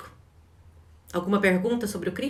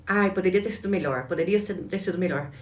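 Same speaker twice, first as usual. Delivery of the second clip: whiny critic. Retold or imitated. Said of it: "sempre procurar pela crítica".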